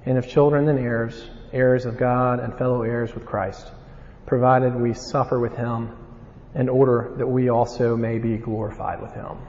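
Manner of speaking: measured Bible reading; scripture reading. Acted. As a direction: read the verses with weight. Reads scripture passage aloud.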